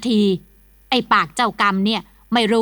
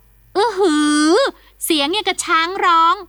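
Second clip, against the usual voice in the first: high, slow startled gasp of a word; startled exclamation; 6 semitones higher, slower than usual. Acted. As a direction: jump out of your skin. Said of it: "สะดุ้งสุดตัว".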